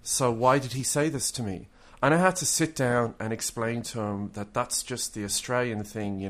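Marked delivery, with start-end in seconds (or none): 0.0-1.7 puzzled German, a word at a time at first; German friend's rough English. Retold or imitated. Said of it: "his English was a bit rough".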